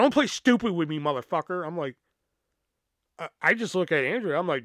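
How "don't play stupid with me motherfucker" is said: retold angry retort. Accusing mother's angry retort, retold.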